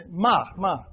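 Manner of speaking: MA falling, said twice; fourth tone. Shown as a demonstration. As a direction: drop the pitch on each ma. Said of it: "the fourth tone".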